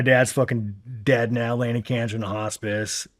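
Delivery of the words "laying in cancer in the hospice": normal talking voice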